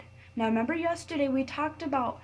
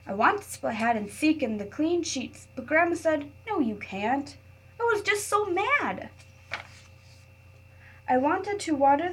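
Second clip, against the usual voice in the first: put-on reading to children. A narrator's reading. Teacher reading a picture book to her class, expressive read-aloud. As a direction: read it like story time for little kids.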